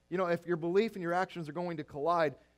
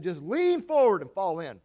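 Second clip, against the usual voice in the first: coaxing call; 8 dB louder than usual. Retold or imitated. Dad coaxing kid into pool.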